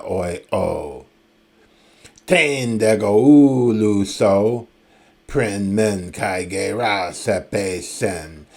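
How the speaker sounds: slow, measured recital of Homeric Greek verse; poetry recitation. Acted. Professor reading Homer's Greek to the class, slow epic recital.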